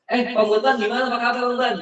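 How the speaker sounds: high, demonstrated hail to an acquaintance; hearty greeting. Shown as a demonstration. Trainer showing a touch greeting to a man, hearty hello. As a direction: greet him brightly, pitched well up. Acted greeting between men.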